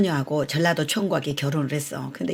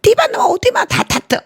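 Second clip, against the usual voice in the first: much higher, louder lisp mocking the child; mock lisping kid; 9 dB louder than usual. The firefighter mocks the child, high lisping voice. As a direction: echo the child's lisp back.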